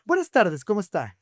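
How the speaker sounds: a lightly voiced lesson in manners; pointed politeness. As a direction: nudge the customer to greet first. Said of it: "le echa spray y le dice".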